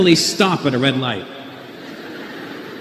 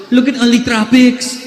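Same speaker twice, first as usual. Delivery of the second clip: high-pitched mock Filipino English; Filipino accent; 7 semitones higher, 3 dB louder than usual. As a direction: imitate a Filipino woman, "traffics" as "tropics". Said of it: "And she goes".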